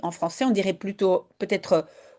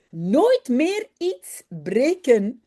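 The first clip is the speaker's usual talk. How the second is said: slow mock-stern order, a bit higher; 5 semitones higher, much slower than usual. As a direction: lay down the law playfully. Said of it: "zegt hij streng". (ordre faussement sévère, lent)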